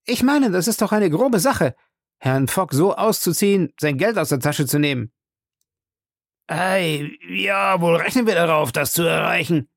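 scheming Fix. A narrator's reading. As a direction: admit the plan slyly.

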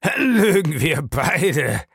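slow, drawn-out, high amused reply; lightly acted hilarity, pitch lifted. A narrator's reading. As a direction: stretch it as if after a hearty laugh. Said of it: "brach in schallendes Gelächter aus".

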